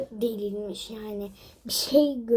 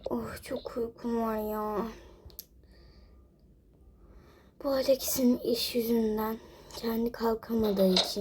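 whisper; 6 dB quieter than usual. Real, not acted. Woman tired while husband sleeps, sleepy whisper. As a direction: whisper it wearily. Keeping quiet in the house.

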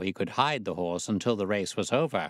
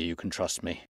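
even softer, fading to a murmur; fading plea; 3 semitones lower, 6 dB quieter than usual. A narrator's reading. Cowed trainer to Holmes, plea fading to a murmur. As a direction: let the plea sink away. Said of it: "cringed along".

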